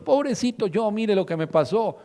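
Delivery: high whining pobrecito yo; mock the self-pitying sufferer; preacher mocking people who pity themselves, whining; whiny self-pity. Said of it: "mucha gente sigue diciendo".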